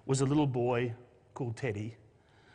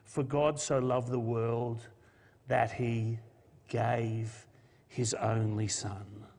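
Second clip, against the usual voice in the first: solemn scripture recitation; 3 semitones lower, slower than usual. Acted. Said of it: "and that verse says".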